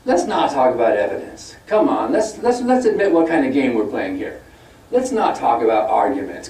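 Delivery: imitating a preachy debater scolding; lightly hammed-up sermonizing; mock lecturing. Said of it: "But Peter Hitchens said".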